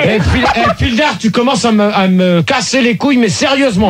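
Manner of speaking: real exasperated scolding; no longer joking. Real, not acted. Host telling off a troublemaker, seriously annoyed. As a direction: warn him in earnest. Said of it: "Ah, il rigole plus".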